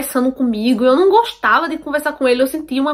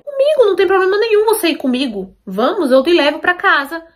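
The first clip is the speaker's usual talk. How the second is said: higher-pitched imitation of a pushy coworker cutting in; insistent interruption; 5 semitones higher than usual. Coworker interrupts her to offer a ride home, insistent. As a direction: jump in insistently, pitch raised. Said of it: "Aí ele me interrompeu".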